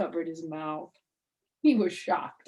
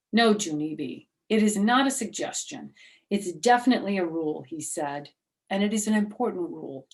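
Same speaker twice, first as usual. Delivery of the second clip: louder, brisk teacher insisting; firm teacher; 7 dB louder than usual. Acted. Mister Scary insisting to Junie B, firm and louder. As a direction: set her straight, quick and firm.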